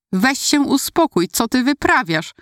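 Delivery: high, angry yell at sister; angry shout. Acted. Brother catching the mirror, angry shout. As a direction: yell at her to calm down. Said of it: "wrzasnął rozgniewanym tonem".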